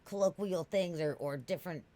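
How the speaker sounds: mock proud self-quote. Streamer mocking her own stubborn pride, mildly grandiose. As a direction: puff up a little as if proclaiming your principles. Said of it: "I'm such a, like".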